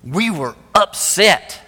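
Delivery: slow, weighty "We were upset."; slow deadpan line. Retold or imitated. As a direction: let "upset" land slow and heavy after a pause. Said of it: "then he paused".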